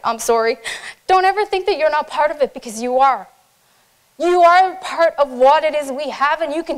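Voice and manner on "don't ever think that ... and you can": emotional. Real, not acted. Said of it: "never seen me cry before".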